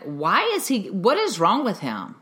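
mild mock indignation; retelling a friend's irritated demand; imitated anger. Mother quoting an angry friend about a crying little boy, mildly indignant. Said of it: "he got angry".

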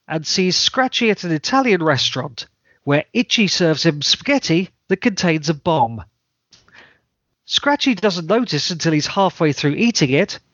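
dry, matter-of-fact read; semi-deadpan. Shown as a demonstration. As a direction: read it with a straight face. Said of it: "read in a semi-deadpan voice".

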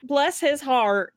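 slow, sweetly condescending Southern "Bless his heart". Pretend. Teasing a player over saving throws, mock Southern sweetness. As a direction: drawl it like a polite Southern put-down. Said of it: "in the most Southern way possible".

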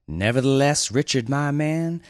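lightly voiced firm resolve; understated firm dude; firm Winston.

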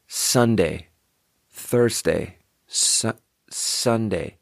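"Sunday" and "Thursday" with a careful middle-ground S; controlled S. Shown as a demonstration. Practising the wanted S, careful and softened. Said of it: "what we want is we wanna be here".

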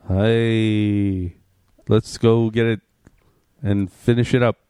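a hint of a heroic robot commander; booming metallic robot. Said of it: "Do your impression, man".

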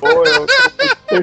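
high laughing confession. Real, not acted. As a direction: admit it through laughter. Laughing admission.

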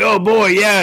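high, goofy cartoon Rick exclamation; mock Rick voice. Podcaster imitating Ricks hearing coffee's ready, high and goofy. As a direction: toss it off like a cartoon scientist.

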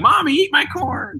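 put-on high, slow little kid voice; little boy voice. Toddler asking Mommy to eat his corn, slow high kid voice. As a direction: plead like a toddler.

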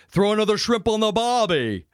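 high, hammed-up Australian accent; test Australian accent. Host tries out an Australian accent on his guest. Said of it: "it was a test accent".

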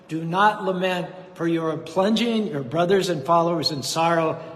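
forceful preaching. Acted. Krishna urging grieving Arjuna to stop lamenting, forceful preaching. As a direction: drive home the warrior's duty from the pulpit.

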